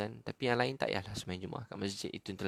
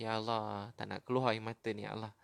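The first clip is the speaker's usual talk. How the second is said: tearful plea. Shown as a demonstration. Preacher models crying to God for hard hearts, tearful plea. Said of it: "Tanda tangan nangis".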